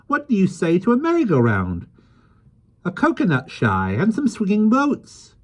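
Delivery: high, loud, delighted little man; excited. Acted. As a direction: cheer as the plan takes shape. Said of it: "clapped his hands excitedly".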